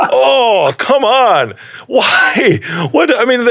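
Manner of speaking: high-pitched incredulous protest; drawn-out, high cry of dismay; exasperated disbelief. Real, not acted. Reacting aghast to painful story.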